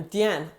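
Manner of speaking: Diane as "dee-AHN"; French pronunciation of Diane. Shown as a demonstration. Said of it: "That's how my name's pronounced".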